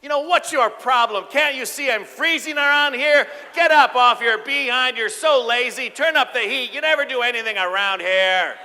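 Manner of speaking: loud, high, furious scolding; aggressive nagging. Shown as a demonstration. Wife yelling at her husband about the cold, aggressively. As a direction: tear into him for being lazy. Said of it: "It would sound like this".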